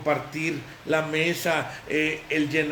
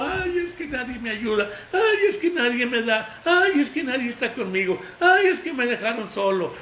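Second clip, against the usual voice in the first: mock whining; 5 semitones higher than usual. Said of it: "Ya no estés lloriqueando".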